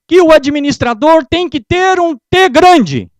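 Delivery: loud, slow, high and drawn out; booming slow punchline; drawn-out emphatic line. Acted. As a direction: spell out the T grande for the crowd. Announcing his code word to audience.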